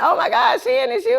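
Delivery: very high, squealing it's you; thrilled mock caller; excited caller. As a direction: fan surprised to reach the owner. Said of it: "They like".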